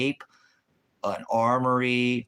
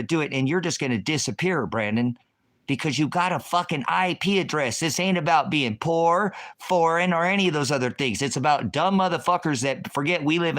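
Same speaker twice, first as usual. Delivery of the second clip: heated shouting; 4 semitones higher than usual. Real, not acted. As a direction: raise it up, furious at a troll in chat. Heated rant at a chatter.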